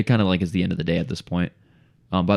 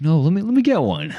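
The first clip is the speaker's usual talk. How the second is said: much higher, louder squeaky put-on voice; mock insistent homeowner; 12 semitones higher, 7 dB louder than usual. Homeowner to salesman, high insistent mock voice. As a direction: imitate the pushy homeowner demanding a card.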